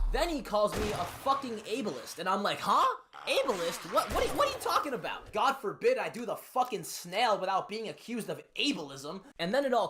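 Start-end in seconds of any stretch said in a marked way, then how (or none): 2.6-5.3 incredulous laugh. Retold or imitated. Accused of ableism, incredulous reply.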